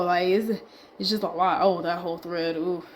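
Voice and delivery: winded, breathy talk; running out of breath. Real, not acted. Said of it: "I'm getting winded".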